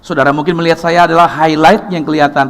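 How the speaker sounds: ordinary talk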